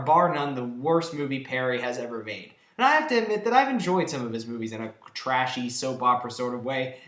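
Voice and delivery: ordinary talk, nothing marked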